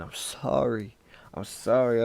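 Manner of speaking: acted, pleading sorry; tearful apology. Owner crying over his dog, pleading tearfully. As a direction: plead as if through tears. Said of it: "My tears is hitting him".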